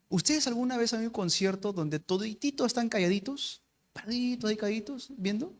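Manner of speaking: softly, mimicking a silent crowd; hushed. Pastor describes a silent concert crowd, hushed. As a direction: hush the voice like a quiet audience.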